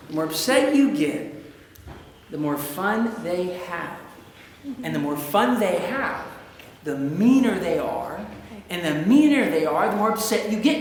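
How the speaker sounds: measured, low-pitched restatement; low, deliberate cycle; deliberate recap. Shown as a demonstration. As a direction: lay out each step with pauses. Slowly restates the vicious circle.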